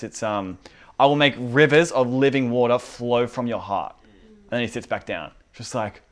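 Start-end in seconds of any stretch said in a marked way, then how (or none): 1.0-3.9 shouting. Retold or imitated. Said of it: "and he shouts".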